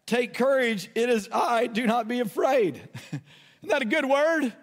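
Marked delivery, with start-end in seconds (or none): 0.0-2.8 measured scripture reading of Jesus' reply; reading Jesus' words. Retold or imitated. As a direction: read his words steadily, a touch raised. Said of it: "he spoke to them and said".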